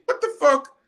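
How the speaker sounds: high, loud what-the-fuck burst; outraged disbelief. Real, not acted. Fan outraged at the manager's interview, loud disbelief. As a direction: blurt it out, stunned and outraged.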